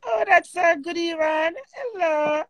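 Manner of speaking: high, cooing hello; sweet greeting. Real, not acted. Host welcoming a male caller live, cooing. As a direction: greet them in a high, doting voice.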